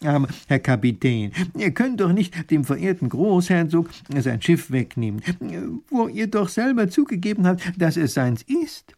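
mild persuasive professor; reasoning gently. A narrator's reading. Professor tries to reason with the captain, mildly pleading. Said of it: "mit vernünftigem Reden versuchen".

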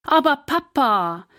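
put-on girl startled by the cost of new shoes. A narrator's reading. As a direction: gasp it out in surprise. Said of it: "sagt Larissa erschrocken".

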